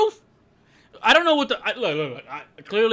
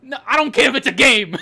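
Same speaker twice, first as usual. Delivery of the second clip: louder, laughing through the words; laughing protest; 5 semitones higher, 8 dB louder than usual. Real, not acted.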